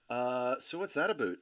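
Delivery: mock Canadian accent on a question; light Canadian impression. Shown as a demonstration. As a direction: quietly put on a Canadian "aboot". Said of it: "a third of them have an accent".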